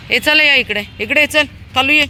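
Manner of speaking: high, loud call to the dogs; loud high-pitched calling to Kalu. Real, not acted. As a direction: call the dog over from a distance.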